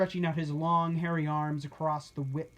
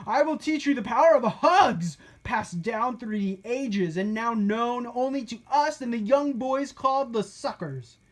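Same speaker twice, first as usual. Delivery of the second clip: raised, pitched-up storybook villain voice; high character voice; 6 semitones higher, 6 dB louder than usual. A narrator's reading. Story character proclaiming to his captives, raised and high. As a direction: deliver it like a grand secret.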